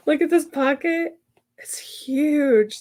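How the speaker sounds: hushed, thrilled whisper; excited whisper. Real, not acted. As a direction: whisper it like a secret treasure. Excited over finished pocket.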